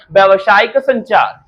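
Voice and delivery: slowed, deliberate repeat of व्यावसायिक संचार. Shown as a demonstration. Teacher repeating the term for students to memorise, slowly. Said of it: "क्या बोलते हैं?".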